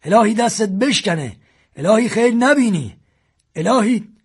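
high, loud tearful chant of curses; keening curse chant against the shooter; choked-up cursing. A narrator's reading. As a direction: wail the curses through a lump in the throat. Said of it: "و بغض کرد و ورد گرفت".

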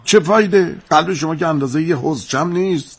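high, exasperated rebuke; reproachful scolding. Acted. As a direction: scold him in frustration. Scolds him over his mother.

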